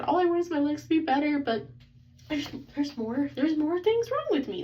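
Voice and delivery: retold bawling. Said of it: "as I'm literally bawling my eyes".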